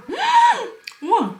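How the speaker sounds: high, loud burst of delight; delighted wow. Real, not acted. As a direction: squeal at the first bite. Delighted by taste. (신나서 높게 감탄하기)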